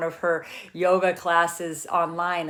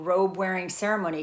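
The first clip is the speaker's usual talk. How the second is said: ordinary talk, nothing marked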